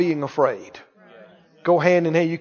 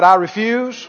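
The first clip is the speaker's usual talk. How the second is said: said out loud; 2 semitones higher than usual. Shown as a demonstration. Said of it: "Everybody said out loud".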